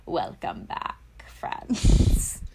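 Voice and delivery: whispered witch greeting; breathy, creepy witch whisper; spooky witch voice. Pretend. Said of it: "Is that the spooky witch voice?".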